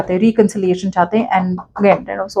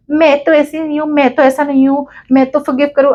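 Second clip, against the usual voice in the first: higher-pitched mock objection; mimicked protest; 4 semitones higher than usual. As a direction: imitate a viewer insisting "not me". Mimics viewers protesting in comments.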